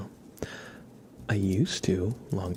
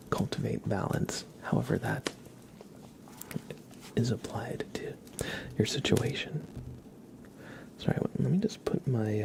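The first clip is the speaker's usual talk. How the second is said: ASMR whisper. Acted. Streamer whispering reflections to viewers, ASMR whisper. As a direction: breathe the words, no voice.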